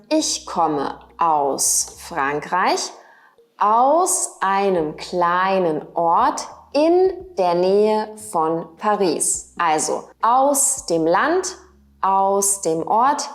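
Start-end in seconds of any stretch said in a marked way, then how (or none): 0.1-9.5 slow, carefully spaced words for learners; teacher reading a model answer slowly; slow model sentence. Shown as a demonstration. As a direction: spell it out slowly, word by word. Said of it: "kannst du auch sagen".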